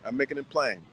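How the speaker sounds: ordinary talk, nothing marked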